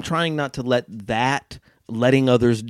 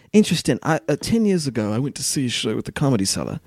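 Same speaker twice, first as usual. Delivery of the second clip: badly imitated British storyteller; halting British accent with pauses; 3 semitones higher than usual. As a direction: tell it in a put-on British voice. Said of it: "That was my worst British accent".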